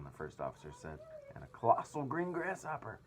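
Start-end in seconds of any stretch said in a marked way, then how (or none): 1.3-3.0 high, loud amazement; astonished. A narrator's reading. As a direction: marvel at it out loud. Captain continuing astonished list.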